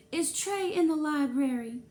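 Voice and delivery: a mother asking pointedly; Mrs Spencer voice. A narrator's reading. Mrs Spencer asks the librarian for her son, pointed.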